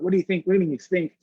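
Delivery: imitating teenagers' shocked outrage; panicked disbelief. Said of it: "the kids started freaking out".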